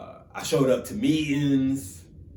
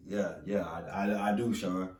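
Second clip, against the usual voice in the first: sheepish yes; 5 semitones lower, 6 dB quieter than usual. Retold or imitated. Sheepish answer to mentor.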